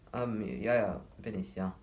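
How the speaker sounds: halting, hesitant ums and yeses; stammering. Acted. Son startled by his father's question, stammering. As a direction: stumble over the words, caught off guard. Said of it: "stotterte er".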